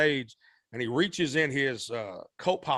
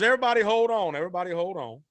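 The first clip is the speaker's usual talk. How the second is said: calling out to the band; 5 semitones higher, faster than usual. Retold or imitated. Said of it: "And he goes".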